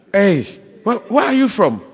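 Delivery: loud, high incredulous questioning; mock challenge. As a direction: call out like an official challenging a traveller. Acted airport challenge to passport holder.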